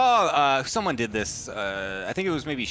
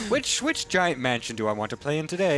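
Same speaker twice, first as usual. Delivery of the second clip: put-on failed French accent; 2 semitones higher than usual. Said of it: "That's not a French accent".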